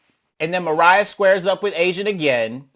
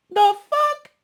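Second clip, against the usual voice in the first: squeaked way up high; stunned disbelief. Retold or imitated. Reacting to the handshake, squeaked high in disbelief. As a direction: gasp it out, floored. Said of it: "And I'm like".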